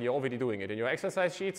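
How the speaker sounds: usual speaking voice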